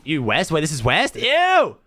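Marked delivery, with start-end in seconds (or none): 1.2-1.8 loud high "Ew" of disgust. Real, not acted. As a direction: recoil in mock disgust. Disgusted by the map view.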